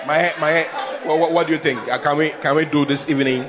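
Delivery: low, stammering request; begging husband. Acted. A husband stammers a request to his wife, begging. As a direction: plead haltingly, stumbling over the words. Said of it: "Boys are begging".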